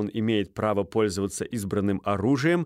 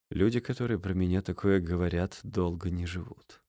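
low, soft, cold threat; menacing quiet threat; 4 semitones lower, 5 dB quieter than usual. A narrator's reading. Стужев quietly threatening Стольский, low and cold. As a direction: let the menace sit low. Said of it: "прищурившись".

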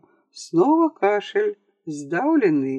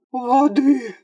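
crying out; 6 semitones higher than usual. A narrator's reading. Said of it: "вскричал Джозеф Такс".

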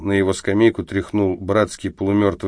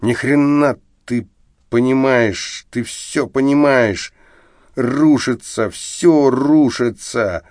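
put-on higher, slow drunken shouting; 4 semitones higher than usual. Drunk Arestov shouting at his friend on the train. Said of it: "Он уже кричал".

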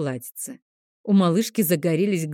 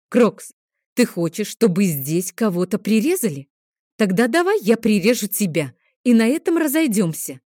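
angry mother; 4 semitones higher, 4 dB louder than usual. Acted. Mother furious at dragon.

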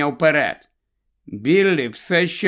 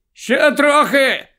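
much higher, louder, slow shout; 12 semitones higher, 5 dB louder, slower than usual. A narrator's reading. Fat Pete yells at the men pushing the car, shouting. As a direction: yell to the pushers. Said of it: "кричить товстий Піт".

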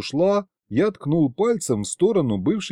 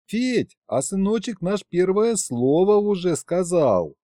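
wife's voice; 5 semitones higher than usual. Acted. Wife Varya voiced, higher.

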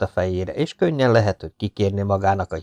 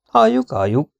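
higher, louder eager urging; excited urging; 6 semitones higher, 4 dB louder than usual. A narrator's reading. Roni urges Gömböcke to share his plan, excited. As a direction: egg him on, impatient to hear. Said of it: "biztatta Roni izgatottan".

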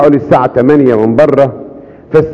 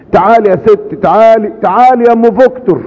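calling her over, higher and lifted; Pope Kyrillos calling; 8 semitones higher than usual. Acted. Pope Kyrillos calling Victor's mother over, higher and lifted. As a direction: beckon her warmly, voice raised. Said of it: "قالت".

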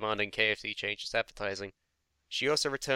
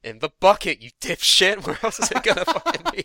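loud exasperated yelling; angry shout; 7 semitones higher, 9 dB louder than usual. Real, not acted. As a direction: yell it in disbelief. Yelling at the complainer.

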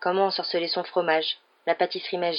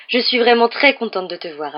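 effusive welcome; 5 semitones higher, 7 dB louder than usual. Acted. Mother turns kindly to the guest.

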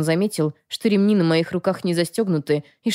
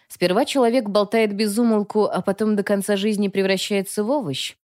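mocking; 4 semitones higher than usual. Heroine turns tables mockingly.

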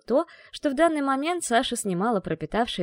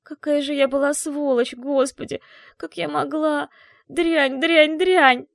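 higher, rising to a loud anguished cry; tearful self-reproach; 6 semitones higher, 5 dB louder, slower than usual. Acted. Mother weeping over her friend's wounds, anguished self-blame. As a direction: break down cursing yourself in tears. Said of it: "текли слёзы".

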